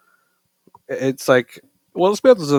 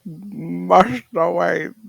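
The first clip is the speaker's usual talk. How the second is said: Alfred butler voice; much slower than usual. Retold or imitated. Quoting Alfred, Caine's butler.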